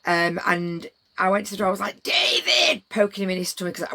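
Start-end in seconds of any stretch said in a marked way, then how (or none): 2.0-2.9 a higher, louder cheerful call of a name. Retold or imitated. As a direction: call his name across the doorway. Calling out to David.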